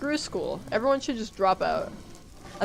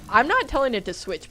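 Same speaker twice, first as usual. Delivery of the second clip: ordinary talk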